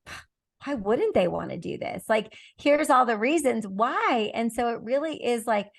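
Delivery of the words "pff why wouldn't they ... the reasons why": confident, slowing to list the reasons; positive confident tone. Shown as a demonstration. Seller believing in her product, confident. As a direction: sound sure everyone would want it. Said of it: "And I'm over here like".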